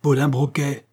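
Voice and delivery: aloud. A narrator's reading. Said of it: "À haute voix maintenant".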